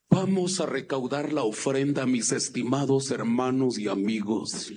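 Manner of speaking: low, drawn-out preacher impression; Efraín Avelar. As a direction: announce the offering in a deep copied pastor voice. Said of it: "él imitaba la voz". (imitación de pastor, grave y pausada)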